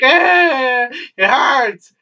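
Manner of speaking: high, drawn-out whine of pain; mock wail. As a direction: whine like you just tripped and fell. Acting out crying after a fall.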